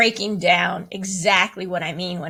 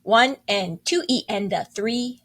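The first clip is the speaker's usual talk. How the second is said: counting aloud. Shown as a demonstration. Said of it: "how we count that is".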